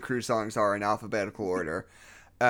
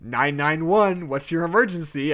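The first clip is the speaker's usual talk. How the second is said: monotone operator voice; 4 semitones higher, 3 dB louder than usual. Acted. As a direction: read it like a bored dispatcher. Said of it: "I said in a monochrome tone".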